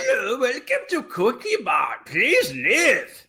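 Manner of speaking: put-on high Indian-accented shopkeeper voice; Indian accent Cookie Monster. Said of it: "the Cookie Monster doing an Indian accent".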